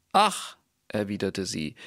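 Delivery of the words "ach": high, sighed ach of a sad princess; a high, mournful little ach; princess sighing. Acted. Princess sighs. (hohes, klagendes Ach der Prinzessin)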